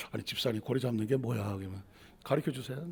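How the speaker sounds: hushed question. Retold or imitated. Church member asking quietly.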